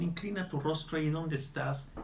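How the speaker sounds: normal talking voice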